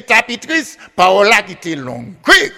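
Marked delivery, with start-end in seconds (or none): 2.2-2.5 sharp high call to the crowd; storyteller's call. Real, not acted. Storyteller calling out to the audience for a reply, sharp high call.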